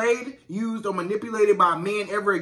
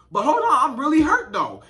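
protesting hurt player; 5 semitones higher, 4 dB louder than usual. Retold or imitated. Injured player protesting to coach.

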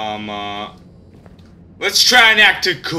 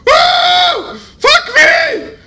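laughing relief; 4 dB louder, much slower than usual. Real, not acted. Relief after chase.

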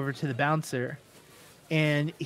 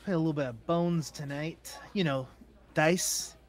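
lightly voiced gambler, softer; flirting gambler; 5 dB quieter, faster than usual. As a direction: chat her up casually, with hesitant pauses. Game master plays flirting gambler.

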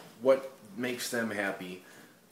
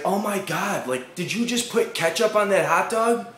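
high, loud, scornful valley voice; mock disgusted crowd; 7 semitones higher, 5 dB louder than usual. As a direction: sneer in disgust at him. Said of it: "everybody's like".

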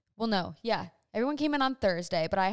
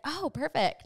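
mildly excited quote, pitched up; 6 semitones higher, slower than usual. Retold or imitated. Daughter retelling mom's discovery about ranch water, mildly excited. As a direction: imitate a pleased reaction, higher voice. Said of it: "she was all excited".

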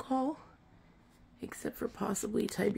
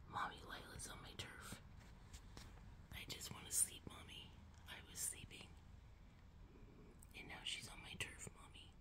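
soft, breathy whine of a sleepy cat; whiny cat voice; 24 dB quieter than usual. Retold or imitated. Owner voicing Taz whining to Mommy about Lila, in a soft whisper. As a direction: whisper it like a pouty kitten complaining to mom. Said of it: "He's like".

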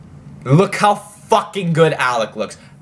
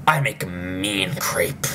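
whispering; 6 semitones lower, 6 dB quieter, slower than usual. Real, not acted. Whispered aside while clip plays.

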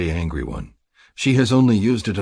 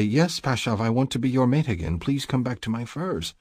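imagined mate; 5 semitones higher than usual. Retold or imitated. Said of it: "Make her say".

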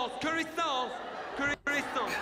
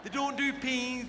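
through glass; 3 semitones higher, slower than usual. Retold or imitated. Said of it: "You gotta talk like that through glass".

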